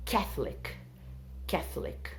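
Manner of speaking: Catholic said KATH-lik, middle vowel dropped; Catholic pronunciation. Shown as a demonstration. Teacher showing the students how to say Catholic. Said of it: "essa é a pronúncia".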